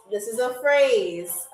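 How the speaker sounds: This is a phrase said slowly and deliberately; slow teaching repeat. Shown as a demonstration. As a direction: spell out This is a phrase slowly, word by word. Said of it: "repeated slowly".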